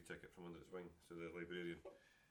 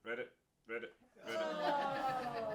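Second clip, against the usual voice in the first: croaky frog rising to a laughing squeal; frog croaking; 10 dB louder, much slower than usual. Acted. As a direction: croak it like a frog, cracking up at the end. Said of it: "a frog jumps out ... and went".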